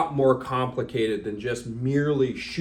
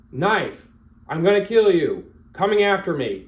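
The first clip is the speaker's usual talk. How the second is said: raised, forceful self-command; loud verbal callout; 4 semitones higher, 5 dB louder than usual. Shown as a demonstration. Shooting coach voicing a threat callout, forceful. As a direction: call it out loud to yourself. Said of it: "verbally to yourself state".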